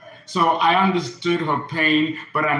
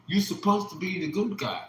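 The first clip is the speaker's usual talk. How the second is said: higher, softer, tearful repeat; softer tearful echo; 4 semitones higher, 5 dB quieter than usual. Retold or imitated. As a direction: echo it softly, as if near tears. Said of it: "She was in tears".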